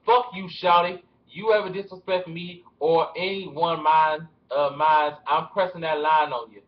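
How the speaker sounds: put-on T.I. accent, emphatic and a bit loud; attempted T.I. accent reading out a threat. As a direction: try a tough T.I. accent. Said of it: "It's so hard to do my T I accent".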